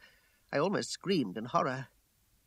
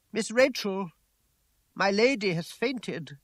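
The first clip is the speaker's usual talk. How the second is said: urgent call; 5 semitones higher, 3 dB louder, slower than usual. A narrator's reading. Servant raising urgent alarm.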